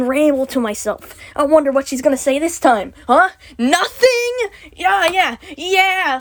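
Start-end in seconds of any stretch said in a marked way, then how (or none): 3.6-6.2 higher, bitterly mocking fake agreement; sarcastic. Real, not acted. Ranting at a silent Discord listener, sarcastic. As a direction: answer the silence with pointed sarcasm.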